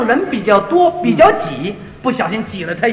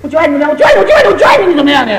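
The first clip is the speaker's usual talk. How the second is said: heated retort; 3 semitones higher, 5 dB louder, much faster than usual. Retold or imitated. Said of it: "一转身就吵起来".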